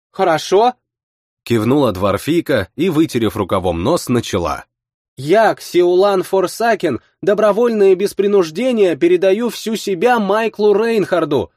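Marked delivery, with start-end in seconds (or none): 0.1-0.8 put-on meek girl voice. A narrator's reading. Girl agrees. 5.2-11.5 put-on solemn girl reading. A narrator's reading. Girl reads contract aloud.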